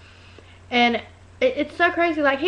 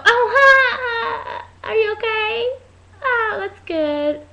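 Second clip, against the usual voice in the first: high-pitched mock laughing through the words; imitated laughing mom; 11 semitones higher, much slower than usual. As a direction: mimic a mom laughing at bad news. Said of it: "My mom laughs".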